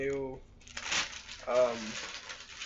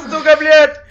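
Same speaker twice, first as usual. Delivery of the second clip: Russian swearing; 13 semitones higher, 19 dB louder than usual. Pretend. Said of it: "That's what I should be saying because I'm Russian".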